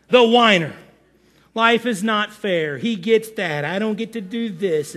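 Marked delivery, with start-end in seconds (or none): 1.5-4.9 mild mock whine, trailing down; whining. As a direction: complain like a hard-done-by whiner. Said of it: "they whine and they whine".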